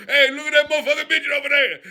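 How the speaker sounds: quick jeering mock voice; mock quote. Rufus quoting a guy laughing at a midget, fast jeer. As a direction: toss it off fast like a heckler. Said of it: "you go".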